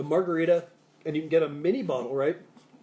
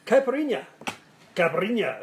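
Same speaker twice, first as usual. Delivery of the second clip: heavy Brazilian accent; 5 semitones higher, 5 dB louder than usual. Shown as a demonstration. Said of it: "I have to use an accent, heavy accent".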